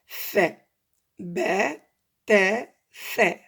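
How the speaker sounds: "Ba", "ta", "fa" one by one, "fa" as tha with tongue tip out; pronunciation demo. Shown as a demonstration. Teacher sums up how three letters sound, careful demo. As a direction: separate "Ba", "ta", "fa" clearly, each opening into the vowel. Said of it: "Ça, c'est la prononciation".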